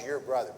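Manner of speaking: "your" hit as the key word; stress on your brother. Shown as a demonstration. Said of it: "Why does he emphasize".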